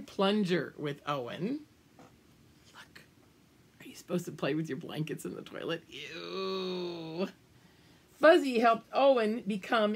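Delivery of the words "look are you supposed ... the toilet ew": soft, quick, amused whispered aside; hushed aside. Real, not acted. Reader asks the children about the picture, hushed and quick.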